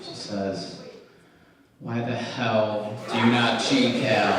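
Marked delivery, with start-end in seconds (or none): 1.8-4.3 slow, louder, mock-stern demand; hammed-up stern interrogation. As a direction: scold him with exaggerated gravity. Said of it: "looks at me real sternly".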